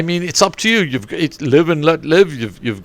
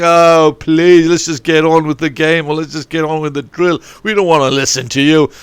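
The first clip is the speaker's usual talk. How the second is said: whining players; 3 semitones higher, 4 dB louder than usual. Retold or imitated. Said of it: "the blokes are saying".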